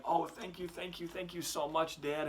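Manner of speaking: put-on a delighted kid overflowing with thanks; grateful boy. Young son thanking his dad for the money, gushing.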